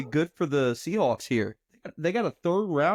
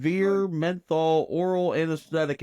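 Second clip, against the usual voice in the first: mouth full; 2 semitones higher than usual. Real, not acted. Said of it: "fat chew in his mouth right now".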